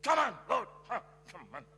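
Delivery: fervent loud prayer calling on Jesus; loud prayer cry. Retold or imitated. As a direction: call out to Jesus loud and slow. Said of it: "Saya bisa ngomong gini".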